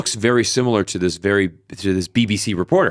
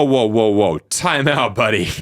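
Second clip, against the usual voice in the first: raised, insistent "hold on" interruption; mock protest; slower than usual. Vlogger calling out the reporter's boast, mock protest. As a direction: cut in as if calling someone's bluff.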